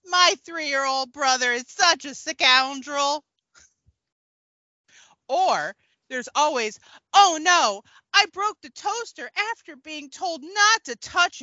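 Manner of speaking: a hint of a peppy tween vlogger; teen idol character. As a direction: play a perky child celebrity giving vlog tips, lightly. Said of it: "A word from our favorite teen idol".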